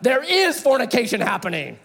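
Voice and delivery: amused retort. Retold or imitated. Speaker correcting Billy through laughter, amused. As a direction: tease him with a grin you can hear. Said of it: "I'm like".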